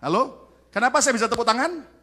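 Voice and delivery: Kenapa lifted, rising at the end; rousing rising question to the congregation; waking the sleepy. Shown as a demonstration. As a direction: ask again brighter to jolt the drowsy. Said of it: "Yang ngantuk bangun".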